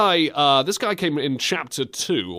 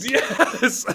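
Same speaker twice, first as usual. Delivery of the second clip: excited laughing shout; 8 semitones higher than usual. Real, not acted.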